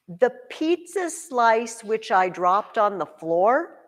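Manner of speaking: slow, drawn-out "The pizza slice which I dropped on the floor"; slow emphatic clause. Shown as a demonstration. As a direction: stress the clause slowly as vital info. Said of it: "which one I dropped on the floor".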